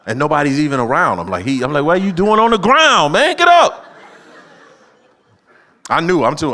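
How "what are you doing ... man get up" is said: high, loud shout building to Get up; exasperated yell. Retold or imitated. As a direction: yell at the kid lying on the ground. Dad yelling at fallen son.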